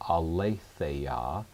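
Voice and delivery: aletheia said slowly, ah-lay-THAY-ah, stress on the antepenult; careful pronunciation. Shown as a demonstration. Teacher introducing the first Greek word, careful aletheia, ah-lay-THAY-ah. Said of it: "important to learn to pronounce them correctly".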